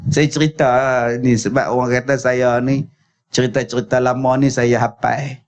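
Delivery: usual speaking voice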